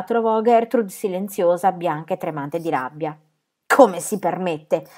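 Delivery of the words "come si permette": slow, breathless rage; panting in anger. Acted. Gertrude gasps at the aunt's insolence, slow breathless rage. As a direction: gasp it out, shaking with anger. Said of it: "ansimò".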